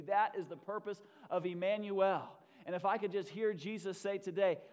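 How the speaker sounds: sermon swelling from steady to loud; building preaching. Real, not acted. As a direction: gather force with each phrase.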